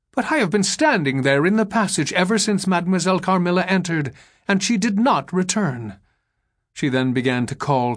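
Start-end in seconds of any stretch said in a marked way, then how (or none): 0.1-6.0 higher-pitched, hurried protest; a hint of an agitated governess; lightly voiced insistent Madame. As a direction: insist in a raised, quickened voice.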